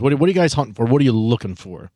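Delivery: normal talking voice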